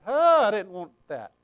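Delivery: dismayed "oh", then protest; dismayed objection. Acted. Reader balking at what Scripture says, dismayed protest. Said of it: "It's like".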